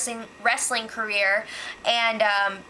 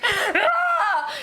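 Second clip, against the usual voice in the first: higher, laughing disbelief at James; incredulous Meg; 10 semitones higher than usual. Retold or imitated. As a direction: laugh then scold him, all pitched up. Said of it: "Meg was just like".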